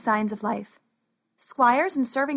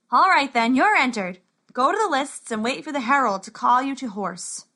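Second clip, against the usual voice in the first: brusque official, louder; gruff scribe; 3 semitones higher, 3 dB louder than usual. Acted. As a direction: hurry him along like a clerk.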